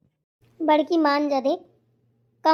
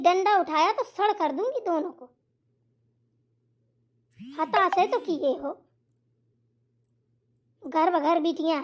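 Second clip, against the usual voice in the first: lightly voiced old woman tut-tutting; scolding mother-in-law; 5 semitones lower than usual. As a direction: lecture the girls like a stern old mother-in-law. Mother-in-law lectures the daughters.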